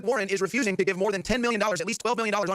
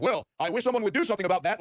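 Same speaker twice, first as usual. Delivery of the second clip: a lightly voiced mock sarcasm, only slightly raised; sarcastic; 4 semitones higher than usual. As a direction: toss it off with a hint of smug sarcasm. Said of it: "like, sarcastically".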